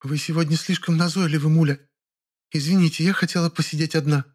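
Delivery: a tired woman saying she wants to be alone; lifeless voice. Acted. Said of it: "сказала чужим безжизненным голосом".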